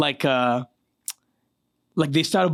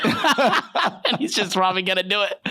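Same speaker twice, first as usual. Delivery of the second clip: laughing; 5 semitones higher than usual. Real, not acted. Laughing at crazy comrade.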